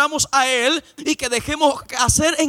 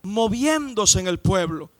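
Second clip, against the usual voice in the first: mock churchgoer's rapture; 2 semitones higher than usual. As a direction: play the swept-up believer calling out after the service. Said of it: "tú sales de ahí y dices".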